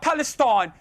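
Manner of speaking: mocking London accent on "Palestine"; London-accent jibe. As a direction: put on a London accent to mock. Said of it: "I even did the fucking accent".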